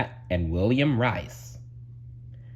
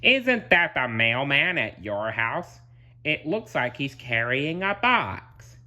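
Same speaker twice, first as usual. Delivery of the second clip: lightly put-on, higher voice; Squidward, pointing out; 5 semitones higher than usual. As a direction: feign helpful surprise. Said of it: "he said, pointing".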